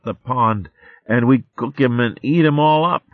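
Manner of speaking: a tiny rascal wheedling his friends; coaxing little squirrel voice; little squirrel babe. Acted. Arvin the squirrel babe pleads.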